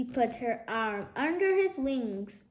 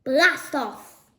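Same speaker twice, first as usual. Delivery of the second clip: launch cry; 6 dB louder than usual. A narrator's reading. Dad launching himself.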